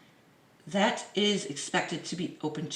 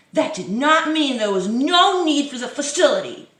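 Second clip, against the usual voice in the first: higher, louder mock voice of the minister; mocking official; 5 semitones higher, 6 dB louder than usual. Vlogger parodying the Health Minister, mocking voice.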